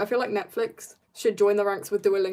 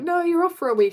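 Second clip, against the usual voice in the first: raised pitch quote; higher mock insisting; 8 semitones higher, 5 dB louder than usual. Classmates' quote, retold.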